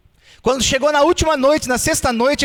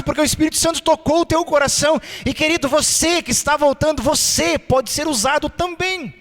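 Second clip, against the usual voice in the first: rousing appeal. Acted. Preacher urging newcomers to serve: rousing appeal. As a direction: call the people forward with fervor.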